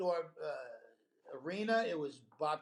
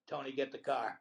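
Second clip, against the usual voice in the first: dropped-character deadpan; 5 semitones lower, 3 dB quieter than usual. Retold or imitated. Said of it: "drops his character completely and goes".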